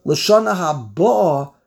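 haba'a stressed on BA, the syllable after ha; stress on the bays. Shown as a demonstration. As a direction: hit the BA in haba'a. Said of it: "if you put the word on".

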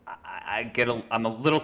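stumbling false starts; real hesitation, repeating words; hesitant stuttering. Real, not acted. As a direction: halt and restart as you decide. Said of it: "I'm even stuttering".

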